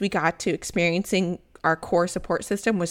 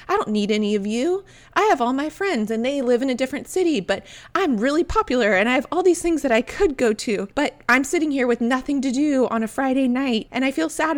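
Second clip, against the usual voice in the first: higher-pitched, self-mocking boast; mock prideful entitlement; 6 semitones higher than usual. Lonely newcomer insisting she needs nobody, mock prideful. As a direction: act out a proud protest that gives way to admitting sadness. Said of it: "this pridefulness, this entitlement of".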